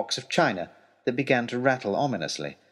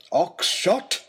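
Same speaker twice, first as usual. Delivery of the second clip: angry rebuke; 8 semitones higher than usual. Acted. Lord Daunt rebuking Oxshott, angry. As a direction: snap his name.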